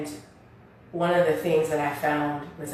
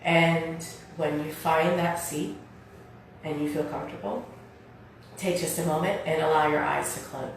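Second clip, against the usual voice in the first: guided meditation; 6 dB quieter than usual. Real, not acted. Leads seated breathing meditation.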